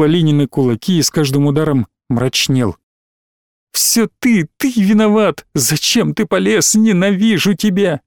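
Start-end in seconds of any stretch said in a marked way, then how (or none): 3.7-8.0 higher, shouting accusations; tearful accusation. Acted. Alina, crying, blaming Vint for everything. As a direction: hurl the blame at him.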